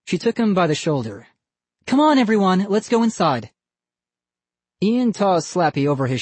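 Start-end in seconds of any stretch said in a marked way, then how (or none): 1.9-3.5 higher, louder call to the group. A narrator's reading. Missus Barker calls the kids inside, raised call. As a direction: round everyone up toward the house.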